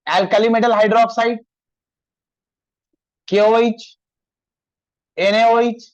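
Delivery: each word spaced out very slowly; slow, deliberate dictation pace. Shown as a demonstration. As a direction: say it slowly so students can write it down. Teacher dictating formulas slowly.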